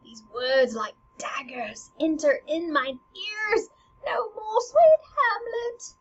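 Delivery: high, loud, tearful plea; queen freaking out. Retold or imitated. Queen begs Hamlet to stop, freaking out. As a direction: cry out for him to stop. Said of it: "the queen is freaking out".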